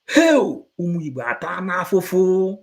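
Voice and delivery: sudden loud high cry on Hell. Real, not acted. Preacher crying out the Igbo suffering to the crowd.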